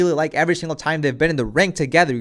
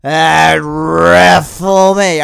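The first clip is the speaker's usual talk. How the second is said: very slow, drawn-out gushing thanks; mocking the rival's syrupy speech, dragged out very slowly; Cody Rhodes impression; 5 dB louder, much slower than usual. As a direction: stretch every word like an over-grateful hero. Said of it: "do a Cody Rhodes impression".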